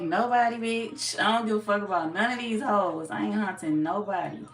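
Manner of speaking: hammed-up careless Leo shouting it off; mock dismissive Leo. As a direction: belt it like a Leo who doesn't care. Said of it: "Y'all like".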